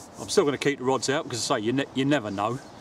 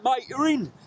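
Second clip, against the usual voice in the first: retold shout; 12 semitones higher, slower than usual. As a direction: shout it like the rod just ripped off. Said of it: "he shouted out".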